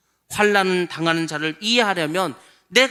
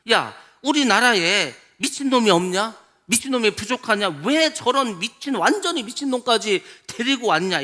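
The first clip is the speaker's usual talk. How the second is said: mock king's scolding; 3 semitones higher than usual. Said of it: "소리를 치면서 책망합니다".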